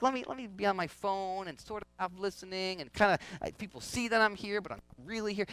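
softly voiced distracted churchgoer; mock half-listening. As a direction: mumble it like someone half on their phone. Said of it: "Not like".

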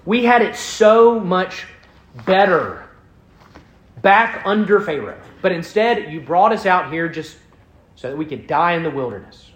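preacher voicing an aggrieved people; frustrated anger. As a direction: cry out in mock exasperation at God. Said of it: "crying out in frustrated anger".

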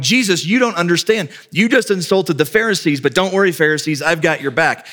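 a hint of a self-important scribe; mock indignant lawyer; smug lawyer. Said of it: "are now going".

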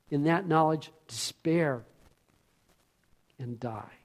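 wavering, gloating witch voice; a wicked witch gloating over her victim, quivering; quivering witch taunt. Acted. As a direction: sneer it at the bound lion. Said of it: "said in a quivering voice".

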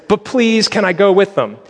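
put-on high pleading child's whine; whiny child. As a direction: beg like a kid asking a parent again. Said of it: "like a child that didn't get the answer he wanted".

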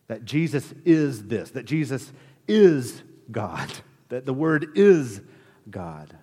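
slow, with weight on each "is"; deliberate emphasis on "is", drawn out; stress on "is". Real, not acted. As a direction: lean hard on every "is", pausing before "God". Preacher underlining a statement of being.

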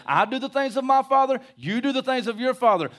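high, loud needling jab; pointed, sarcastic tone. Retold or imitated. Jesus talking to doubters about fathers, sarcastic tone. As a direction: throw it out as a pointed dig. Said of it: "they heard Jesus' tone".

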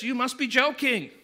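loud, high, incredulous protest; exasperated disbelief. Retold or imitated. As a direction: push back like it's ridiculous. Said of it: "So basically what they're saying is this".

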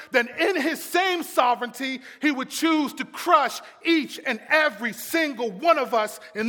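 loud, emphatic pulpit delivery; full-voiced, insistent proclamation; forceful preaching. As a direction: build the argument with driving urgency.

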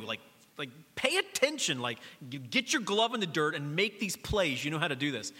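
a father-coach losing patience, reenacted; mild mock yell of a coach; retold angry coaching. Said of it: "I'm angry".

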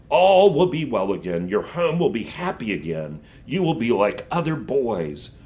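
lightly voiced tempting witch; coaxing witch. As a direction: sweet-talk him like a witch.

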